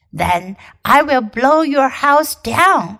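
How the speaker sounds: slow big bad wolf. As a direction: threaten like the wolf. Wolf threatening.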